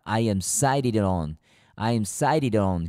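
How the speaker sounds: very slow, each word drawn out; slow reading demo. Shown as a demonstration. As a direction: spell it out slowly for the class. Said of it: "읽을 때는 sided on입니다". (천천히 또박또박 읽기)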